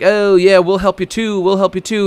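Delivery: high, bright-eyed eager yelp; high, keen mock Luffy voice. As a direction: play it like a keen kid volunteering. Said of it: "Luffy's like".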